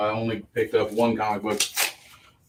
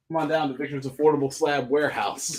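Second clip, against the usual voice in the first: TV ad pitchman. Pretend. Mock sales pitch for comics.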